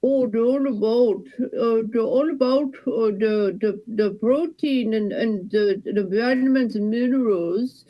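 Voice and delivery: lightly voiced Wisconsin cashier accent; a folksy Wisconsin checkout clerk, gently. Cashier chatting to a shopper in a light Wisconsin accent. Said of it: "that little accent ... Wisconsin".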